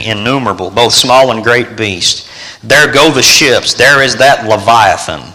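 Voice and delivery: solemn scripture reading. Acted. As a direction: read it out like a psalm.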